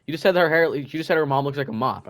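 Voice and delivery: loud, insistent retelling of the teacher; teacher insisting on what the boy said; accusing teacher. Retold or imitated. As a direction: spell out what he said, pushing hard on said. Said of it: "She's like".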